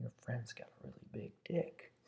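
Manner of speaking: hushed, close, secretive half-whisper. Retelling what a stripper said into an ear: imitating a half-whisper. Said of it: "whispers in my ear".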